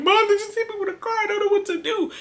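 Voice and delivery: very high-pitched imitated wail; mock boohoo crying. Hit daughter phoning mom at work, mock boohoo crying. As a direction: re-enact a frantic, tearful plea in a high voice. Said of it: "I'm boohoo crying".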